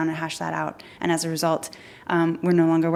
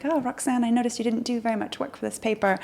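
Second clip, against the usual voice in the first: higher, softer mock politeness; lightly sarcastic, pitched up and softened; sarcastic quoted comment; 5 semitones higher, 4 dB quieter than usual. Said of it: "very kind of sarcastic".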